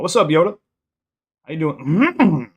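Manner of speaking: high, slow, strained Yoda voice; Yoda impression. Streamer greeting chat, attempting a Yoda voice. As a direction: croak it out like a failed Yoda. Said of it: "I can't even do a good Yoda impersonation".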